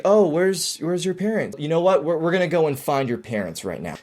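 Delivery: put-on calm a lost kid; reassuring. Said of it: "You sound self-assured, you sound reassured".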